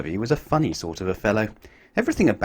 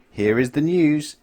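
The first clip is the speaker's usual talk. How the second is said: slow announcer read; newsreader; 4 semitones higher, 4 dB louder, slower than usual. A narrator's reading. Television newsreader opening the news, slow and grand. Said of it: "instead of saying".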